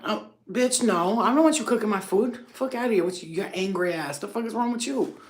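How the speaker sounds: mock outrage at the rude cook; indignant retort.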